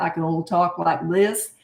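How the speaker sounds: light put-on Southern accent; playful Southern accent demo. Shown as a demonstration. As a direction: talk with a touch of a Southern twang. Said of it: "um, Southern accent".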